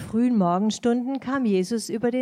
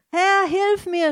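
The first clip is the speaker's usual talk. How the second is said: high, loud, slow cry for help; desperate cry; 9 semitones higher, 5 dB louder, slower than usual. A narrator's reading. Peter sinking, crying to Jesus for help. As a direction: call out for rescue while sinking. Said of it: "schrie er".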